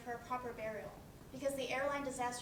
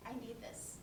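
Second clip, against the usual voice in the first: desperate plea; 12 dB quieter than usual. Acted. Pleading, voice fading away.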